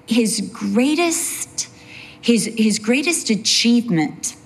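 breathy conspiratorial hush; mock whisper. Real, not acted. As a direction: drop to a sly whisper. Hushed aside mocking an ex-evangelist.

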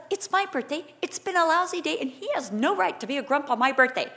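mildly hammed-up birthday grievance; retold mad rant. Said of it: "I got really mad".

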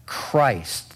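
Christ alone, held and weighed as the key word; stress on Christ. Shown as a demonstration. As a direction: lean on Christ. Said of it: "that's the emphasis".

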